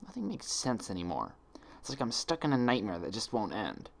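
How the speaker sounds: soft, hoarse and hopeless; hoarse whisper. A narrator's reading. Twilight with face buried in hooves, hoarse whisper. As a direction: murmur it into your hooves. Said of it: "her voice dropping to a hoarse whisper".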